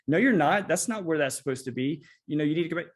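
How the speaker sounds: a fed-up parent raising the voice; exasperated parent scolding. Retold or imitated. Parent scolding kid second time.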